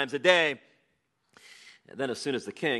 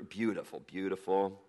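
softly admiring; 4 semitones lower, 7 dB quieter than usual. Real, not acted. Savouring the detail, softly.

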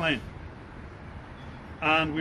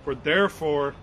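scripture reading. Acted. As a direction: read the Gospel aloud to the congregation. Reads the scripture passage aloud.

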